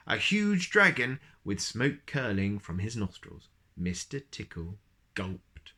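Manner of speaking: put-on reading a picture book to a child; story narration. A narrator's reading. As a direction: tell it gently like a bedtime story. Reads picture book aloud.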